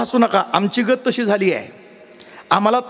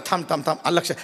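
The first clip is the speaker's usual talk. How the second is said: softer, lower, calming him down; quiet pleading; 4 semitones lower, 5 dB quieter, much faster than usual. Retold or imitated. Husband quietly calms his angry wife, softer. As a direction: hush her gently. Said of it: "ते म्हणलं".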